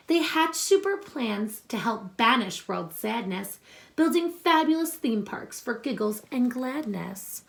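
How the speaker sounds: put-on reading a picture book aloud to children; story reading. Teacher reading a superhero book to her class, storytelling voice.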